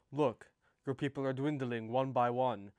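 lightly voiced Russian accent. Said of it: "Why did you sound Russian?".

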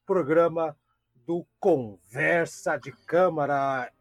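slow announcer opening; grand welcome, slowly; show host opening. Acted. Opens the show.

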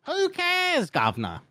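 high put-on British voice; mock British accent. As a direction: toss it off like a London cabbie.

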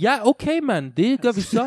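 put-on high, loud English-accented Danish. Mocking an Englishman's Danish, exaggerated English accent. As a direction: mimic an Englishman speaking Danish up in the mouth. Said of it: "snakker op i munden".

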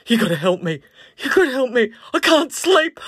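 high, loud, nearly crying plea; desperate plea. Retold or imitated. Tired guest begging the girls, high and near tears. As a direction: beg for help like you haven't slept in days. Jay begs, sleepless and scared.

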